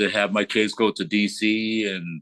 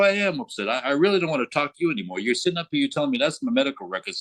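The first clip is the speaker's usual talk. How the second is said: higher-pitched indignant retort; worked up, words tumbling out; upset; 5 semitones higher, faster than usual. Retold or imitated. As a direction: retell a fed-up refusal. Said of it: "you seem to be a little bit upset".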